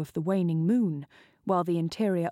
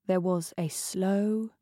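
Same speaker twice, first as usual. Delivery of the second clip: ordinary delivery, nothing marked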